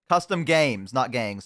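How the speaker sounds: talking through a mouthful of pizza; words round a bite of food; mouth full. Real, not acted. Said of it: "Sorry, I had pizza in my mouth".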